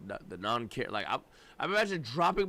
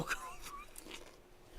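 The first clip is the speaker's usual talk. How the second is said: high squeaky laugh; 14 dB quieter than usual. Real, not acted. Shocked reaction to streamer.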